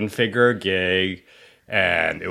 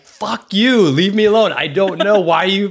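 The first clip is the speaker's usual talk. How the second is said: much higher, louder exasperated fuck you; mock furious reply; 11 semitones higher, 7 dB louder than usual. Snapping back at pestering texters, high and loud. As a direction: blow up at the texts in exasperation. Angry reaction to pushy texts.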